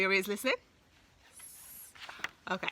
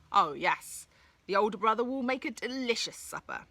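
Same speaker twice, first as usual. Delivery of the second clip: greedy troll; 3 semitones higher, 3 dB louder than usual. Acted.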